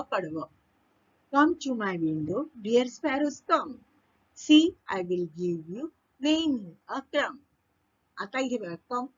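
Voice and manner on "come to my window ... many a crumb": slow verse reading, phrase by phrase; poem recitation. Acted. Teacher reading the second stanza, slow poem recitation. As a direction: recite it slowly and measuredly.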